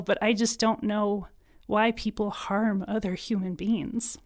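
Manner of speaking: choked up, trailing into a whisper; emotional. Real, not acted. Guest grieving hate attacks, choked-up whisper. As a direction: hold back tears, voice sinking. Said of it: "I'm getting a little emotional".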